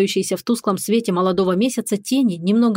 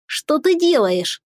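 alarmed creature voice; 7 semitones higher, much slower than usual. Acted. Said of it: "спросил Бальтазар".

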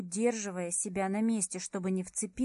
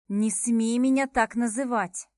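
indignant outburst; 7 dB louder than usual. Acted. Heroine protests being called cat.

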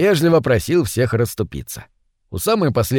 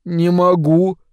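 strained, higher-pitched voice; squeezed out; 4 semitones higher, slower than usual. Acted. Витя admits he cannot spit it out, squeezed out. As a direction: force the words out as if the mouth won't let them. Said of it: "выдавил наконец из себя Витя".

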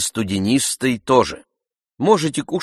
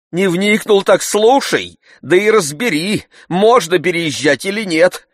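master's higher, louder tirade; pathetic lecture; 10 semitones higher, 8 dB louder than usual. A narrator's reading. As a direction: lecture him theatrically.

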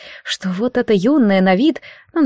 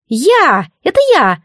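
put-on higher, boyish cry with a grown-up edge; childlike voice; 6 semitones higher, 4 dB louder, slower than usual. A narrator's reading. Unseen spirit answering the priestess, childlike yet grown-up. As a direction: call out like a child who is secretly old. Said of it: "детским голосом, но как-то очень взросло".

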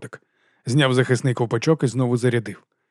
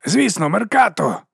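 a slow, dim-witted higher cheer; dull agreement; 7 semitones higher, slower than usual. A narrator's reading. Dim labourer agrees with his cheering friends, slow and dull. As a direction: sum it up slowly like a dullard. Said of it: "тупо підсумував він".

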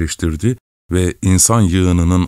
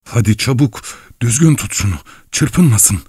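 shouting; 4 semitones higher than usual. A narrator's reading. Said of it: "ve bağırdı".

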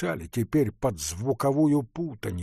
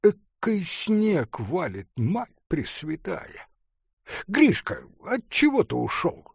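put-on drunken rant; 7 semitones higher than usual. A narrator's reading. Drunk artist ranting in snow.

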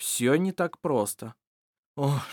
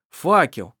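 a sudden loud cry of discovery; calling out; 2 semitones higher, 7 dB louder than usual. Acted. Shira spotting the torch, calling out loud. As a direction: call out the torch as it comes into sight.

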